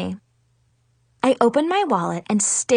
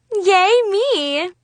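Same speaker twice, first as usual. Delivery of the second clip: excited cheer; 9 semitones higher, 4 dB louder than usual. A narrator's reading. Narrator cheering for herself.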